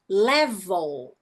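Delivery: 'level' with the second E dropped; silent second E. Shown as a demonstration. Teacher modelling 'level' for students, second E silent. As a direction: go from V straight to L in 'level'. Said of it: "não pronuncia a letra E".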